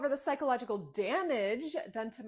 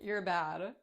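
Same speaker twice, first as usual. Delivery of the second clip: teasing, restrained scold; playful scolding; 3 semitones lower than usual. Acted. Mother teasing the principal, playful scolding. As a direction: tease a naughty friend lightly. Teasing repeated, second take stronger.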